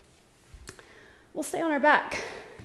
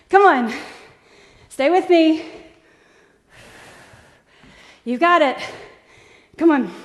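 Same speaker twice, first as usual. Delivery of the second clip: loud encouragement; 4 semitones higher, 8 dB louder than usual. Real, not acted. Coach pushing class through effort.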